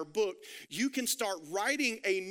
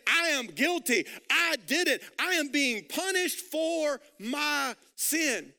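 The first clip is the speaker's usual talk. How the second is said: louder, slow confession of guilt; 4 semitones higher, 3 dB louder, slower than usual. Retold or imitated. Criminal confessing on the cross, loud slow admission. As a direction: own up to it with force. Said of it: "He's up there saying".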